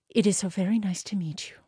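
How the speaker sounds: timid whisper, a bit fast. Acted. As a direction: breathe the words out nervously. Shy princess greets hedgehog groom.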